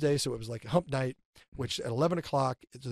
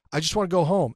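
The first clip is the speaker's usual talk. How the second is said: raised-voice protest to himself; retold yell at himself; 7 dB louder than usual. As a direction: replay a loud complaint to yourself. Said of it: "And I'm yelling at myself".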